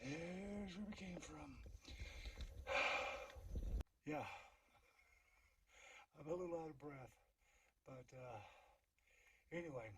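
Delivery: soft, hushed voice, barely any sound; whispered narration. Real, not acted. Hiker panning the view narrates in a whisper. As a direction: whisper so the moment stays still. Quiet filming on the ridge.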